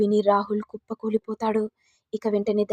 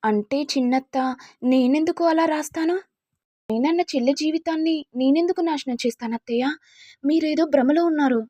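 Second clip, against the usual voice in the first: higher, anxious denial; a touch of panic in a higher voice; tense pleading; 6 semitones higher than usual. Acted. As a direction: nervously protest your innocence. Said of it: "ఇక Saranya tension పడుతూ".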